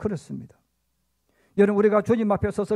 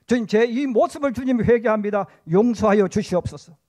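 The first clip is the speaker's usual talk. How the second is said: louder, emphatic acted prayer; repentant plea; 5 dB louder than usual. Preacher models praying when convicted by the Lord, pleading. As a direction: push the plea out firmly, as a penitent. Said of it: "여러분, 그럴 때".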